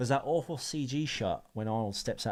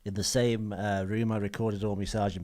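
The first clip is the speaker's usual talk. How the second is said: put-on Liverpool accent, telling studio tales; a singer. The singer recalling Abbey Road sessions, Liverpool accent. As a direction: keep up a mock Scouse impression. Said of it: "I can't say that as John Lennon".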